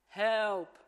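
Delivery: high, loud mock cry of Help!. Man jokes to Eric, loud mock cry for help. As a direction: yell it like someone drowning, half in jest. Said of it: "Yeah, crying out for, for help".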